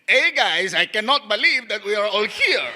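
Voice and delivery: flat, bored audition read; unenthusiastic. Shown as a demonstration. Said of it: "you sound really unenthusiastic".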